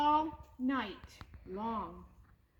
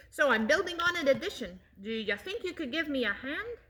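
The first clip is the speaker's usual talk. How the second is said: eager chatter; faster than usual. Acted. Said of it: "he exclaimed".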